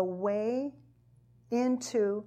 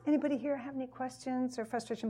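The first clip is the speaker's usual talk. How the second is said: quick aside question; 5 dB quieter, much faster than usual. Retold or imitated. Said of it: "I'd love to ask".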